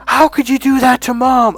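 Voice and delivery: high-pitched, indignant mock scolding; retold sisterly outrage. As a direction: imitate an outraged sister reproaching her brother. Sister's outraged phone call, retold.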